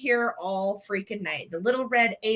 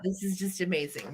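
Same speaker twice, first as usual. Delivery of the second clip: whispering; 3 semitones lower, 7 dB quieter than usual. Real, not acted. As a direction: whisper it, half laughing. Overcome with laughter.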